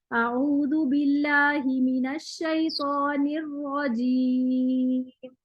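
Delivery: slow recited Arabic with the final रजीम drawn out long; slow tajweed recitation, last word held; lengthened pause on rajeem. Shown as a demonstration. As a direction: recite slowly, stretching रजीम before the stop. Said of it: "ये जो रजीम पे मैंने वक्फ किया है वो मैंने लंबा करके वक्फ किया".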